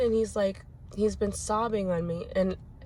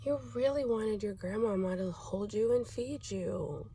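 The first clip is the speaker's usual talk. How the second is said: gentle empathy; 3 semitones higher, 4 dB quieter than usual. Retold or imitated. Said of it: "I was like".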